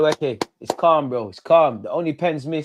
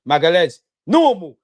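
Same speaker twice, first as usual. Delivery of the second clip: excited cheer; 3 semitones higher, 7 dB louder than usual. Real, not acted. Celebrating a scored penalty.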